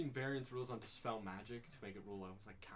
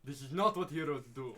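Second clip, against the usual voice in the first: insistent; 6 dB louder than usual. Acted. Repeats the scolding louder.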